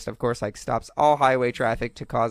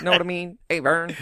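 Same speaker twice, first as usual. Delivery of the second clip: Ernest catchphrase; 5 semitones higher than usual. Retold or imitated. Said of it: "all I can say is".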